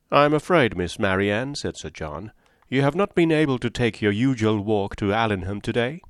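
hearty, lightly voiced host; teasing Sir John. Sir John teasing Marianne about her walk, hearty and bright.

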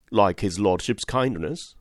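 slow, puzzled rising echo; stunned question, drawn out slowly; blank amazement. Acted. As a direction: repeat it back, dumbfounded. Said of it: "in blank amazement".

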